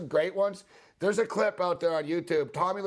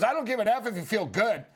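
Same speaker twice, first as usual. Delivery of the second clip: mock angry Lasorda; 7 semitones higher than usual. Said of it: "He goes".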